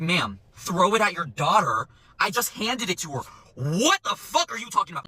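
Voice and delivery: slow, emphatic disbelief; reenacted baffled indignation; incredulous retort. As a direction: stretch each word at an absurd accusation. Server's incredulous retort, retold.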